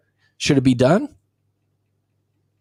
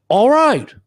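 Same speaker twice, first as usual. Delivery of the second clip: mock defeated; 11 semitones higher, 3 dB louder than usual. Acted resigned reply in dialogue.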